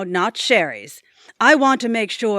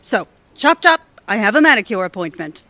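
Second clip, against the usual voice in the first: bossy order; 5 dB louder, faster than usual. Acted. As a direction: snap the orders like a spoiled boss. Boss orders intern around.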